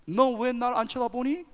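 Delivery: mock stern teacher questioning a pupil; reproachful American teacher. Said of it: "그때 선생님이".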